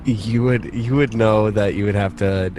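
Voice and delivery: ordinary delivery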